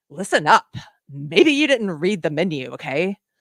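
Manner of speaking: loud, snide, condescending, talking-down tone. Imagining people at brunch lecturing each other, mock-condescending tone. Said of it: "in this condescending voice".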